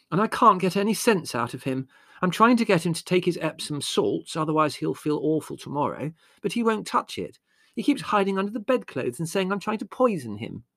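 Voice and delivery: high, exasperated complaint; despairing. A narrator's reading. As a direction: plead helplessly that he won't cooperate. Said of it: "said Margot despairingly".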